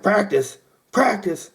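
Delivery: high-pitched, disbelieving echo; mock incredulity. Groomsmen told they must practice, high mock-incredulous protest. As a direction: repeat it as if it's an absurd idea.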